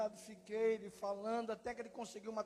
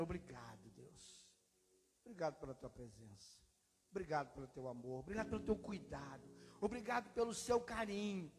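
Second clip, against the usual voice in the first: grateful prayer; 3 semitones lower than usual. Retold or imitated. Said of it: "E voltava chorando, dizendo".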